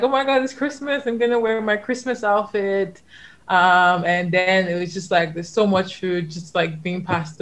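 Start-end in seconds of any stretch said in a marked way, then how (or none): 0.0-3.0 higher, gushing with Christmas excitement; family member gushing about Christmas outfit, excited. Retold or imitated. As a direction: squeal about the outfit like a giddy relative.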